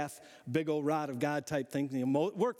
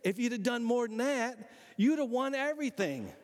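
higher-pitched mock scolding; scolding prophet; 4 semitones higher than usual. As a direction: scold him like a fed-up prophet. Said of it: "He says".

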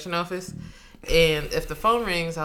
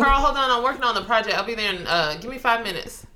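busy brush-off; 5 semitones higher, faster than usual. Acted. Busy worker stalling Carl over a project, brushing off. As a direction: put off an interrupting colleague.

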